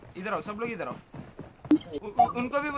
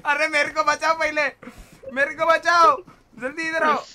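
panicking gamer; 3 semitones higher than usual. Real, not acted. Begging teammates to save him.

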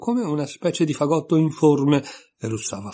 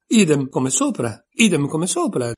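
Idem come sopra shouted twice, louder; shouting; 5 semitones higher, 5 dB louder than usual. A narrator's reading. Tweedledee mocking Alice, shouted repetition. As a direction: yell it to drown her out. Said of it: "gridò Tweedledee".

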